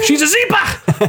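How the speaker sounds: high, hammed-up Aussie shout; hammed-up Australian accent with A's turned to E's; mock Australian. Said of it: "that's Australian, right?".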